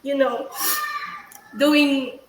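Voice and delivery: shaky, tearful but steady; steady voice with shaky moments. Real, not acted. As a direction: push through the tears. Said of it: "So that's why I'm crying kasi".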